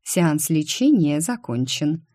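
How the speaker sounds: flat, dry announcement; dry and curt. Acted. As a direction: state it coldly, slowly. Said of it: "сухо сообщив".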